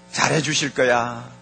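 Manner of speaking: low, slow, softened inner voice; reassuring self-talk. Acted. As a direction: reassure yourself slowly and low. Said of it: "이런 소리를 하게 돼요".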